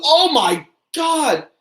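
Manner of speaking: drawn-out, high, stunned gasp of a cry; shocked. Real, not acted. Watching two wrestlers brawl, a drawn-out shocked cry. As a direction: let it out slow and amazed at the carnage.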